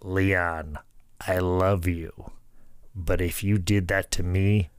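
a lightly voiced, slow, menacing old wrestler; calm old-timer promising he'd kill you; Harley Race voice. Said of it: "I'm gonna try and say it in my best Harley Race voice".

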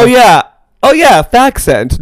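camp it up in recognition; teasing, elongated oh yeah; mock enthusiasm. Playful exaggerated agreement.

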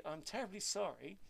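put-on lightly done Sheffield accent; a hint of a northern Sheffield voice. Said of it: "but in a northern accent, a Sheffield accent".

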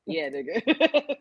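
flat admission. Retold or imitated. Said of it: "she was like".

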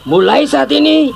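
angry father ordering him away; stern anger. Acted. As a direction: lay down the law to the boy. Father lays down his order.

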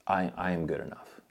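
soft, understated answer as God; hushed and sure; quiet reassurance. Acted. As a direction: answer a doubt gently, with calm certainty. Voices God's reassuring answer.

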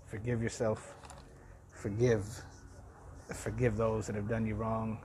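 hoarse, raspy voice. Real, not acted. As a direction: talk through a dry, raspy throat. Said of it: "with my raspy voice".

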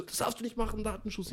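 high, mock-whiny voice; mocking the girl. Mocking the teen girl who complains about data privacy, whiny. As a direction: mimic her like a prissy teenager. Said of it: "Sie so".

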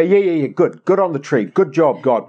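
hurried mock approval; dismissive. Believer humouring God about the tree, mock dismissive. Acted brushing-off of God's remark.

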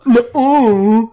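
high, loud whiny nuh-uh; mock whiny denial. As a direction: whine it back in mock protest. Echoing the playful denial.

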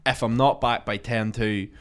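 slow, deliberate orders; slow instruction. Retold or imitated. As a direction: spell it out. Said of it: "he goes".

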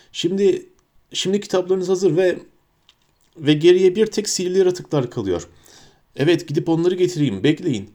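flustered Hagrid. A narrator's reading. Hagrid, at a loss, addresses his first class nervously. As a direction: stumble along, unsure of himself.

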